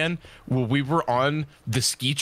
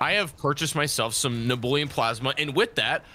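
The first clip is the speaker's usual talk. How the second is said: crypto bro. Pretend. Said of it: "why did you sound like a crypto bro".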